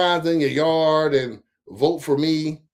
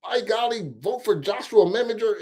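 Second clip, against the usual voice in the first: higher-pitched mock proper voice; mock talking white; 5 semitones higher than usual. Viewer mocks the candidate's talk, lightly put-on proper voice. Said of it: "you know when they talk white".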